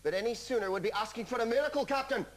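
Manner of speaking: put-on Scottish accent, rushed like a ship's engineer. Host doing a ship's engineer in a Scottish accent. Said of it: "That was my Scottish accent".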